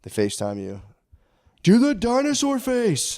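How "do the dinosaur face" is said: put-on high, slow little kid voice. Dad voicing his kid asking on FaceTime. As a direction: ask like a small child on the phone.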